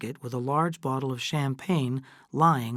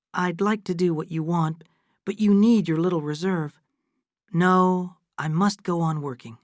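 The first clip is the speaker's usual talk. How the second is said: a lightly higher voice for motherly Fay, kindly but firm; a lightly voiced older woman declining her daughter's offer; Fay, gently refusing; 5 semitones higher, 4 dB louder than usual. Fay pleads with Kate.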